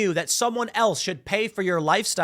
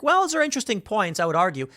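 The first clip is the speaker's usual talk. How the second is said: higher, mildly put-on musing; lightly voiced debater; 3 semitones higher than usual. Audience reacting to policy proposals, mock thoughtful. Acts out everyone's polite reaction.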